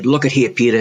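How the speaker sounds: lightly imitated New Orleans southern accent. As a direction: quote the mentor in a mild southern accent. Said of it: "in a southern accent from New Orleans".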